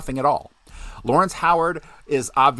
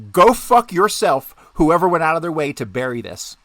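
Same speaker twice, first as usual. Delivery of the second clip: loud, higher, furious yelling; furious shout; 6 semitones higher, 7 dB louder than usual. Real, not acted. Researcher cursing whoever buried the document, furious shout. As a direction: blast whoever hid the file. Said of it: "my fucking angry rant".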